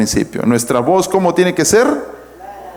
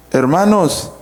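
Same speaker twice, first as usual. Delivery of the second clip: incongruent happiness demo. Shown as a demonstration. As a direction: announce happiness without any joy in it. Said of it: "tus gestos tienen que ser congruentes".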